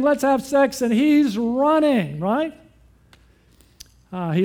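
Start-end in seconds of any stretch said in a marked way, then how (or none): 0.0-0.8 higher and louder, a hammed-up eager come-on; preacher mimics the woman, higher and louder; mock eager proposition. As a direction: toss it out brightly like a pushy temptress. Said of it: "She's saying".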